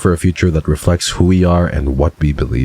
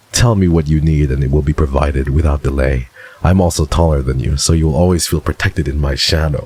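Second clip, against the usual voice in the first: lower, smooth flirty villain voice; lightly voiced suave rogue; Silas voice; 3 semitones lower than usual. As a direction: purr it like a smug charmer. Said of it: "Why am I reading it in his voice?".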